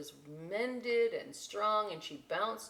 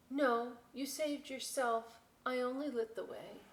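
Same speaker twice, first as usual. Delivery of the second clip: tender; 6 semitones higher than usual. Acted. Lighthouse answering tenderly.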